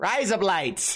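"razor blades" said with an Australian accent. Host tells listeners a word-play joke, saying the phrase in an australian accent. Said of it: "saying razor blades in Australian".

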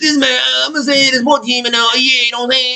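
very high-pitched voice like a call-in sports fan. Mimicking a caller rambling on sports radio: imitating a radio caller. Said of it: "a guy calls, he's like".

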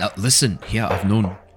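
put-on unintended Scottish accent slipping in. Performer about to vouch for Arabelle in a scene, slipping into a Scottish accent. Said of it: "Why am I Scottish?".

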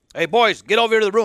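big, burly, loud calling voice. Recalling dad calling his four sons to the room at night, big burly construction voice. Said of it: "in his big, burly construction voice".

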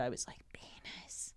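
soft hushed whisper. Retelling whispering a word into an older woman's ear in the lunch line, very quiet whisper. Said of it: "I very quietly whispered".

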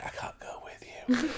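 soft, slow, breathy, drawn-out whisper. Retelling a film scene where a dying character speaks: imitating Trinity whispering. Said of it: "she's whispering, like".

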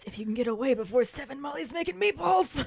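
confiding aside. Retelling a scene where a character lowers his voice to a colleague. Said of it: "Then he lowers his voice and says".

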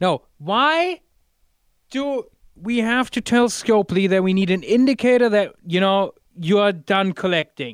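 shrill, very loud, high yelling. After being told they are too quiet, the speaker agrees to speak up, yelling. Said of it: "then I will yell".

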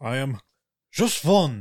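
put-on drawn-out German accent. Starting a character intro, accidentally in a German-sounding accent. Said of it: "that sounded German".

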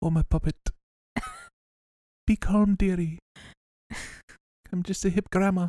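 high, sing-song, swooping Irish lilt. Retelling how Mrs. S stops a fight, in Mrs. S's Irish-sounding voice. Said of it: "You sound Irish".

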